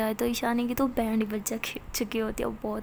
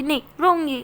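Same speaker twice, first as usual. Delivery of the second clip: sobbing refusal; 6 dB louder than usual. Acted. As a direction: cry harder just to tease her. Pari keeps crying, teasing. (रोते हुए ज़ोर से ज़िद)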